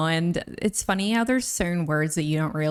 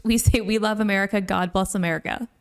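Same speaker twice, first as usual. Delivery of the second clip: mock commenter. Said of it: "a band's song, this is from".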